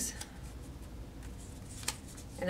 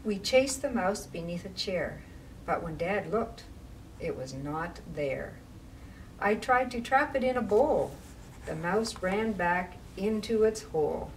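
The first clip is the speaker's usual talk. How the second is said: put-on rhythmic read-aloud for children; picture-book reading voice; story narration. A narrator's reading. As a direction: read the rhyme with a bouncing lilt.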